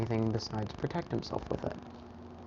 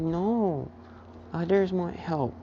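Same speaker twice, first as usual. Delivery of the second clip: put-on toddler voice; 5 semitones higher, slower than usual. Toddler insists.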